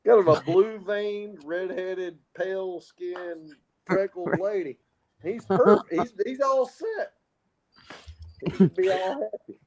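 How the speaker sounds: high lively teasing; excited. Real, not acted. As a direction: gush it playfully. Excited mock praise.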